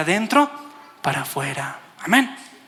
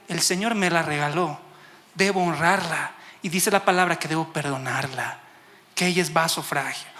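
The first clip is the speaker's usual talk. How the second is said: lower, gently reasoned quote; understanding husband; 3 semitones lower than usual. Retold or imitated. Imagined husband deciding to forgive his wife, gently understanding. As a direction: speak as someone who has understood, calmly. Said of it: "Alguien entendido diría".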